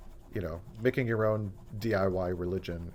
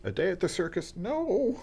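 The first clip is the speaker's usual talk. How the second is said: mock dread; 11 semitones higher than usual.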